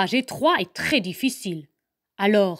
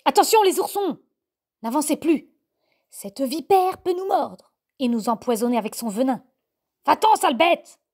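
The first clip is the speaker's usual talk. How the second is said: loud, higher alarmed dog warning; growling warning; 4 semitones higher, 3 dB louder, faster than usual. Acted. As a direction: bark the cubs back and chase the viper off. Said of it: "gronde méchamment". (avertissement grondé, fort et aigu)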